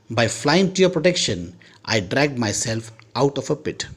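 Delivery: slow, careful English read-aloud; story reading. A narrator's reading. Teacher reads the Chekhov story to students, slow and careful. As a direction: read each phrase slowly for the class.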